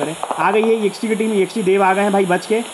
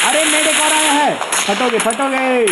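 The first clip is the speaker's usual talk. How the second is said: sharp, much higher excited call; excited shout; 7 semitones higher, slower than usual. Real, not acted. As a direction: jump up in pitch as the fight breaks out. Caster reacting to new enemy.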